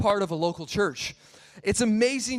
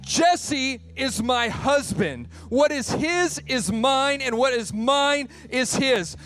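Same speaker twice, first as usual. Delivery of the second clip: high, slow, emphatic indignation; feisty wife; 4 semitones higher, 3 dB louder, slower than usual. Retold or imitated. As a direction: imitate a wife laying down the law, word by word. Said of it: "she's getting feisty".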